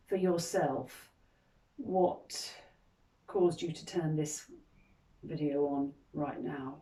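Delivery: calm guiding voice with long, unhurried pauses; guided meditation. Acted. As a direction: gently lead them into reflection, leaving space between phrases. Guides a reflective moment.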